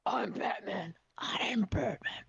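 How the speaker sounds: deep Batman voice. Shown as a demonstration. Streamer demonstrating the Batman voice to her guest, hushed. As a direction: show how Batman says it. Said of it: "So you'll say it in a deep voice first".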